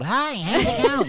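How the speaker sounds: high-pitched chirpy hello in contrast; own high voice. Retold or imitated. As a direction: lift it up into a high light greeting. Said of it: "Where I'm even now".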